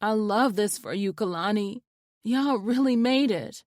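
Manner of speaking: softened. A narrator's reading. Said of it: "voice softened".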